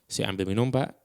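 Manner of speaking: "Saya ambil minum Pak" calmly, then a long pause; pauses between phrases. Shown as a demonstration. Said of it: "ada jeda di antara kata-katanya".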